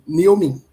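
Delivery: "Naomi" with first syllable like "nee", stressed; corrected pronunciation. Shown as a demonstration. Host checking a viewer's name, corrected pronunciation. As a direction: say "Naomi" roughly as NEEL-mee. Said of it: "I hope I'm pronouncing it well".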